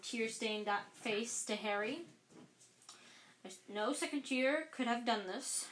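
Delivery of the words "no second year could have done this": firmly. Acted. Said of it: "said Dumbledore firmly".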